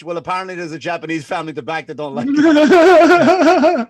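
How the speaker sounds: laughing through a joke. Acted. Joking fake reply, laughing.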